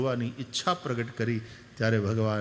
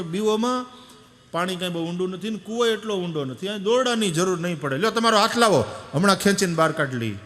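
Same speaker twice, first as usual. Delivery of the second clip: higher, louder eager reassurance; eager calling; 5 semitones higher, 4 dB louder than usual. Retold or imitated. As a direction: call down eagerly to help. Boys reassure grandfather. (ઉત્સાહથી મોટેથી)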